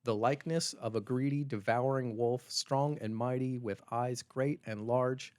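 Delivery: put-on slow, weighty reading of the old quote; slow storybook menace; dramatic reading. Shown as a demonstration. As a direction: read the wolf description like a grim chronicle.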